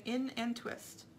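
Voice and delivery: slow, drawn-out counting of a knitting step; slow demo. Shown as a demonstration. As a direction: spell out each move slowly as you teach.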